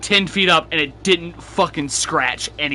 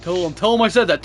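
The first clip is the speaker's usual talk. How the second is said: insistent urging. Pretend. Urging friend to relay message, first take.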